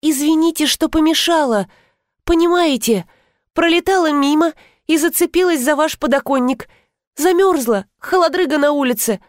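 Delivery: high, lightly purred apology; affectionate purr. A narrator's reading. Uninvited guest excusing herself to the couple, sweet high purr. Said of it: "ласково промурлыкала я".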